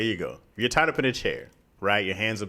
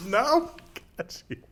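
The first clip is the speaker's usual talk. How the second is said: higher, whispered hammed-up Transylvanian accent; mock Transylvanian whisper; 11 semitones higher than usual. Captor whispers in a mock Transylvanian accent. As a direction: hiss the threat like a campy vampire. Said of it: "What accent is this?".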